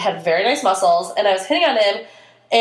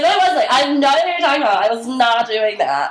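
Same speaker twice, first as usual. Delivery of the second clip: put-on drunk voice; 3 semitones higher than usual. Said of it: "in my, like, drunk voice".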